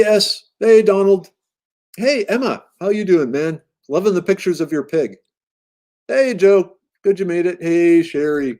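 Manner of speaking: upbeat host welcoming the chat; cheery greetings. Real, not acted. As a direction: greet each arrival with a cheerful lilt. Host greeting arriving chat viewers.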